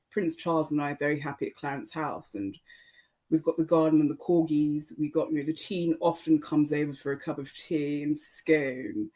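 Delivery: lightly put-on posh English accent. Shown as a demonstration. Podcaster imitating posh schoolmates, lightly posh English. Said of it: "with talk posh".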